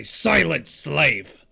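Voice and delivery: slow, drawn-out command to a slave; mock stern order. Smacking Gwyn on the back of the head, slow stern command. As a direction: order them silent, stretching both words.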